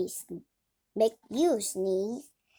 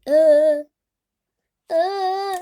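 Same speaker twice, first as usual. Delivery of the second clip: loud gasp before a sneeze; about to sneeze; 4 semitones higher, 11 dB louder than usual. Acted. Gerald winding up to sneeze, loud gasp. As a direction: rear back for a sneeze.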